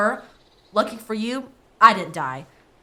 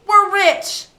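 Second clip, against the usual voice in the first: high, loud cry of joy; excited cheering; 12 semitones higher, 11 dB louder than usual. Acted. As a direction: whoop with glee. Found a gold nugget.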